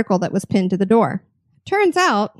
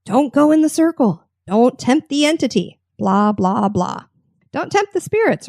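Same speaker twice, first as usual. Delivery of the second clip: mock warning; 3 semitones higher than usual. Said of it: "guide kept repeating her caution".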